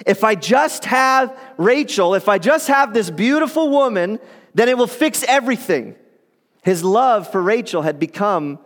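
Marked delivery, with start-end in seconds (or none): 0.0-6.0 longing Jacob. Retold or imitated. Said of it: "longing in his heart".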